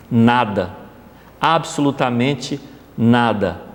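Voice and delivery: solemn first-person reading of the queen's words; lightly voiced queen, solemn read-aloud; reading a message aloud. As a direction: read it as the repentant queen's confession, measured. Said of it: "Eu vou tomar a liberdade de ler na íntegra".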